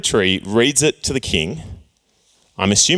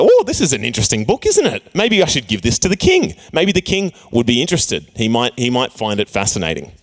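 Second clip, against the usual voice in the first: playful priest voice. Retold or imitated. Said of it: "the priest is like".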